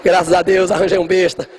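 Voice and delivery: mock relieved father muttering aside; a father glad to be rid of his daughter, lightly voiced. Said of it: "Morto de feliz". (pai aliviado entregando a noiva, em tom de brincadeira)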